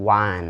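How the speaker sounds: "wan" with an open A, like the number one; correct pronunciation of won. Shown as a demonstration. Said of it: "สระอาน".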